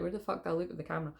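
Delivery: fast, quiet self-talk; quick muttered aside. Retold or imitated. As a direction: rush it under your breath. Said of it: "I'm like".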